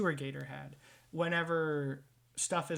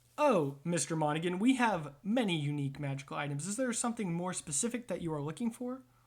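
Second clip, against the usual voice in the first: robot shopkeeper character voice. Voicing a shop robot answering a player's request: voicing Storage Bot the robot. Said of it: "And there is a robot".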